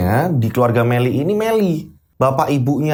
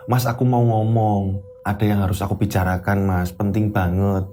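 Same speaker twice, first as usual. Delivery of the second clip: timid wife; 4 semitones lower than usual. Acted. Wife phoning her husband about money, timid. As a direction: ask him nervously.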